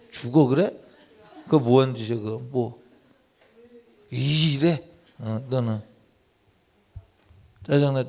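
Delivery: ordinary talk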